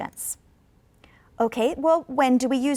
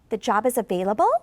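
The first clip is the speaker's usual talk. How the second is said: "available" rises at the end; unsure rising tune; 2 semitones lower, faster than usual. Shown as a demonstration. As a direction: let "available" lift, unsure. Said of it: "my intonation went up".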